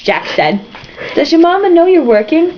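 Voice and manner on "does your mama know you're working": high cooing lady's voice; pitying lady. Acted. Woman fussing over the newsboy, high pitying voice. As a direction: fuss over the poor child.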